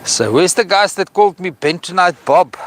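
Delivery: high, triumphant mock challenge to his critics; gloating. Real, not acted. Man taunting critics who mocked his sediment warnings, gloating.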